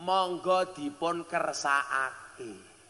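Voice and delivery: slow, soft, courteous Javanese offer; refined polite offer. Shown as a demonstration. Host offering a guest food, slow and polite. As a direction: offer it gently and slowly, like a host. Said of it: "cara bahasa Jawane alus".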